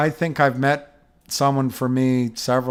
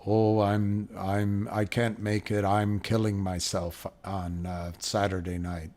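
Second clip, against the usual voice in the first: lower, serious and pompous put-on; 3 semitones lower, 5 dB quieter than usual. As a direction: deliver it with mock gravity, dropping low. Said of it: "she speaks in this serious, pompous".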